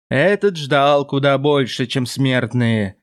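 creaking shadow voice, slowing at the end; creaky demon voice. Acted. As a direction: grate the words out like a shadow demon. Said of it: "проскрипела тень".

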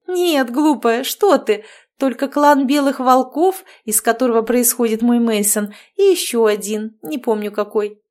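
bubbly overbearing mother-in-law chattering; cheerful witch. Acted. Marianna explaining. (ведьма щебечет слегка выше обычного)

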